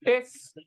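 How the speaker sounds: टिस stressed as its own chunk; syllable by syllable. Shown as a demonstration. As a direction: punch out the middle syllable टिस. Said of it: "तोड़ के बोलना".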